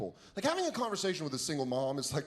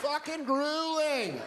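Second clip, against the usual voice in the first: exasperated mom; 11 semitones higher, slower than usual. Retold or imitated. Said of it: "She's like".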